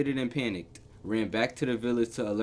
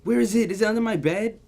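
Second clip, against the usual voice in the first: anxious searching; 9 semitones higher, 5 dB louder than usual. Real, not acted. Anxiously hunting the threat.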